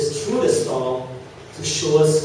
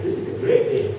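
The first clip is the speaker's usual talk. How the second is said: mock delight. Student cheered by a message.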